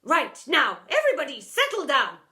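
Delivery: loud call to order. A narrator's reading. Deputy calling the packed room, loud. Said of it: "she called out".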